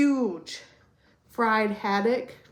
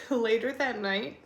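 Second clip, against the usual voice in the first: laughing through tears; teary laugh mid-sentence; emotional laughing take. Real, not acted. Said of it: "let me pull myself together".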